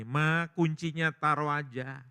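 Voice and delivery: slow, lightly voiced plea to mother; gently drawn-out coaxing; lightly acted daughter persuading mum. Daughter coaxing her dying mother.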